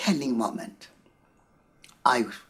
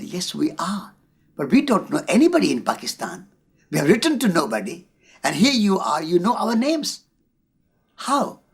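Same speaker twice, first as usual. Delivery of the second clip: retold surprise, rising higher and faster to a high How; astonished; 5 semitones higher than usual. Satish retells meeting a stranger at the Pakistan border, amazed. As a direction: caught off guard that a stranger knows them. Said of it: "I was surprised utterly".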